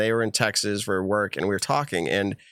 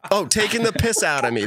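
mock Australian accent; 8 semitones higher than usual. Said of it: "Yeah, you're British, though".

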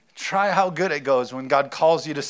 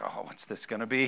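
worried Mary; 3 semitones lower, 8 dB quieter than usual. Pretend. Mary's worried reaction voiced.

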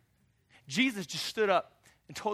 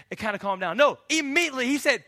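usual speaking voice

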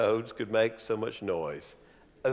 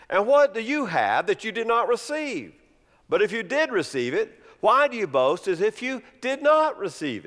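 sarcastic reading, high and loud; mock the boasters with scorn; 3 semitones higher, 4 dB louder than usual. Shown as a demonstration. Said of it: "I'll try to read it sarcastically".

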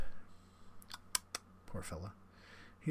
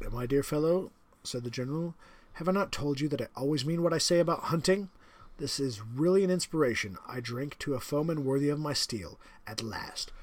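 higher, louder, smug aristocratic villain; the general, menacing; 4 semitones higher, 6 dB louder than usual. Acted. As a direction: savour the threat like a proud host. General toasts his foe.

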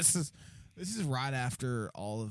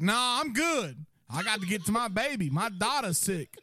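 higher, louder pleading, sing-song at end; hammed-up anxious dad; 8 semitones higher, 5 dB louder than usual. Voicing customer about sick baby.

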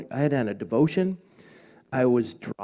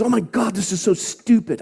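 put-on teen daughter yelling; 8 semitones higher, 7 dB louder than usual. Daughter cussing at her mother.

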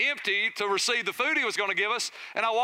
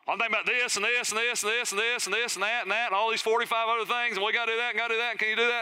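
mock wife, rushed and breathless; lightly voiced wife reeling off her to-do list; rattled-off wife's list; faster than usual. Mimicking wife listing her thoughts.

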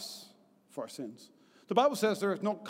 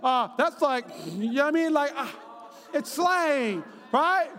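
put-on raised, eager reassurance to a scared boy; reassuring kid; 4 semitones higher than usual. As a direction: talk him down quickly and cheerfully. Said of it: "I said".

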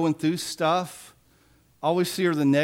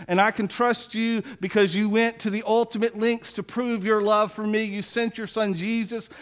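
prayer. Pretend. Voices a prayer of trust.

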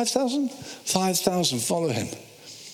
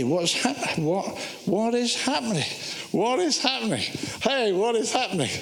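bewildered Peter; 4 semitones higher than usual. Acted. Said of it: "imagine Simon Peter".

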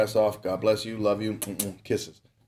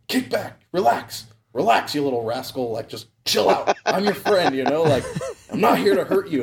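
soothing the owl; 7 semitones higher than usual. Retold or imitated. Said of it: "I'm all talking to him like".

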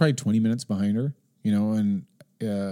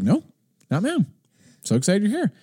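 high, breezy denial, imitated; mock-innocent high-pitched reassurance; faking cheerfulness; 11 semitones higher than usual. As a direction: insist sweetly that all is fine, voice pitched up. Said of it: "you're faking it".

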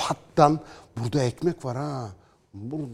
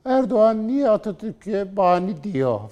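mock critic; 8 semitones higher than usual. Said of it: "falan diyene".

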